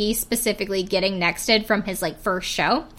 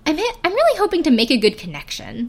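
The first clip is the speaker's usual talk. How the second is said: normal delivery; 7 semitones higher, faster than usual. Retold or imitated. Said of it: "he just says that all normal".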